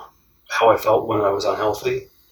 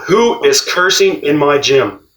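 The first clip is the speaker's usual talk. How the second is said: a mild mock yell, slow; retold yell; 3 semitones higher, 3 dB louder, slower than usual. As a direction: call it out slowly, only lightly yelled. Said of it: "And he yelled out".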